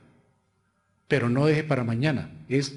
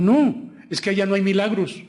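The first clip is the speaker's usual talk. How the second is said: higher, louder mimicked objection; complaining churchgoer; 5 semitones higher, 5 dB louder than usual. Pastor retells friend's report about missing miracles, lightly mimicking. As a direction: lightly imitate a dissatisfied visitor, pitched up. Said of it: "me encontré con la amiga".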